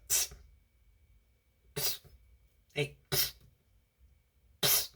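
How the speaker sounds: whispered, imitated attention-getter; secretive psst. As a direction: hiss it softly to get someone's attention. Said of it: "Here's what he said".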